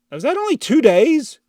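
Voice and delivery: high, loud disbelief; can't believe it's only two days; shocked high question; surprised. Real, not acted. Realizing he is behind.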